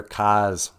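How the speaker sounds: "cars" said as "cahs", R dropped; Boston dropped R. Retold or imitated. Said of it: "sound like people from Boston".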